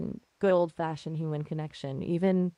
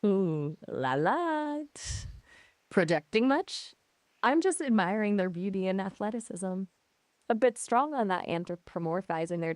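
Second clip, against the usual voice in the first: playful, sassy comeback. Real, not acted. AI teasing back at the horse remark, sassy. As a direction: tease back with a bit of sass. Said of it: "You are sassy".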